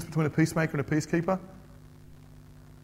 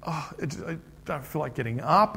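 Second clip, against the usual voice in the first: lethargic daughter. Retold or imitated. Daughter with growing pains not wanting to get up, mock lethargy.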